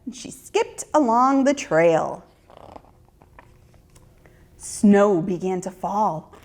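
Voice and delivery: ordinary delivery, nothing marked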